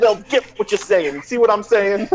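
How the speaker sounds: hyped coaching. Real, not acted. Coach hyping up the kid, high and loud. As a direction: pump him up. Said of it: "you know what I'm say".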